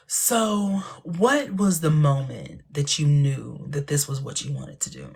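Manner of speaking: slow, measured talk-show question; mock interviewer. Interviewer asking a guest about her big moment, slow and measured. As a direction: ask it like a late-night host, drawn out. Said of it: "And people be like".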